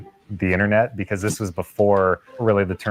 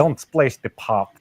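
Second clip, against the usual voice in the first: imitating the Malkovich accent; 4 semitones higher, slower than usual. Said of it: "just the craziest accent with lots of".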